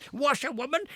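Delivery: loud reckless shout at the top of his voice. Acted. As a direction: shout it with wild glee. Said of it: "he shouted recklessly".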